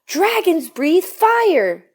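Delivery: high, slow, drawn-out bellow from the coach; a slow booming coach's shout; coach's yell. A narrator's reading. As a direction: roar it out at the class, slow and high. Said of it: "yelled the coach".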